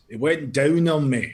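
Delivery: lightly put-on Scottish accent. Joke-teller as complaining customer, mock Scottish accent. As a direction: tell the punchline in mild mock Scottish. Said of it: "did you do that in a Scottish accent".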